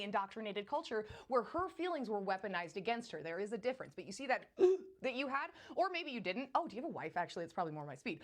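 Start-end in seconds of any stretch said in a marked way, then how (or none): 4.5-5.0 sharp, loud gasp; quick mock-startled intake of breath; mimicked shocked gasp. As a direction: gasp as if caught off guard. Mimics viewer's startled reaction.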